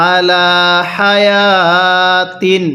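slow, drawn-out Quranic recitation. Shown as a demonstration. Teacher recites slowly for students to repeat. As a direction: recite each word slowly for the learner. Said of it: "কিভাবে পড়ব?".

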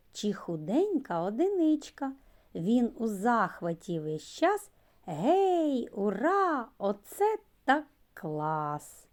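lively rhythmic poem reading; children's poem. Acted. Teacher reading a poem about the exclamation mark. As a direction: recite playfully for little ones.

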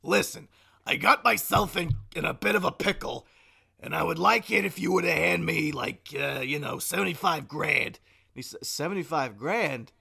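put-on cousin voice. Prank call asking Blaine for money, put-on cousin. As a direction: sell the mafia story loudly. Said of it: "the impression I'm doing".

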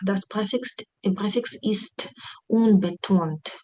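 slow, careful German read, stress on unbetont; slow teaching read. Shown as a demonstration. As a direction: lay it out slowly for the class. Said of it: "Префікс не наголошений". (повільно, по-вчительськи)

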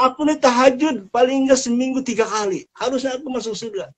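boastful protest. Acted. Sinner insists to the angel he prays enough. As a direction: boast you earned heaven.

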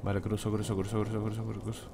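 very soft tense murmur; hushed sneaking. Real, not acted. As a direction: keep it hushed while sneaking past. Sneaking past enemies.

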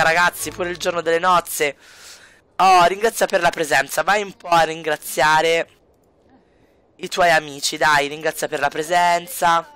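ordinary talk

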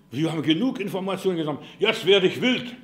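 lauter, gespielt wütender Erpresser; nachgeahmte Drohung. Retold or imitated. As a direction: die Drohung kräftig nachäffen. Spielt den drohenden Hacker nach. (gespielt wütend, laut)

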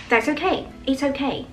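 "That's okay, it's okay" rising, gentle and soothing; comforting tone. Shown as a demonstration. Teacher shows consoling someone, gently. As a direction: reassure someone kindly. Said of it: "这个语调会跟这个 ... 有一丢丢的不同".

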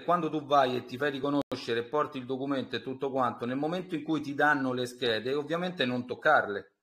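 faint, distant caller; far from mic. Real, not acted. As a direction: voice drifting away from the phone. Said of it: "avvicinati perché non ti sento bene".

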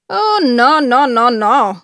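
a read-aloud gasp of horror, no no no; cried out. A narrator's reading. (grido sgomento appena accennato)

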